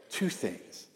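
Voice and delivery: hushed, deliberate imitation of dad; dad's teaching cue. Shown as a demonstration. Son imitating dad starting a lesson, hushed and deliberate. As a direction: set it down softly, like a father about to share a truth. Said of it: "you gotta say it like that".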